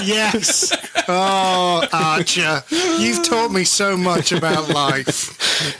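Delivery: mock earnest reply. Mock grateful reply to Archer.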